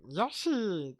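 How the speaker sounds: lightly voiced Yoshi cry; a mild Yoshi yelp; Yoshi call. Pitching the movie fix, a mild Yoshi cry. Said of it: "That was a pretty good Yoshi".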